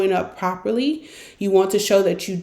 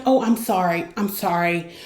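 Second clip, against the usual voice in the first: over-apologizing. Shown as a demonstration. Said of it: "always saying".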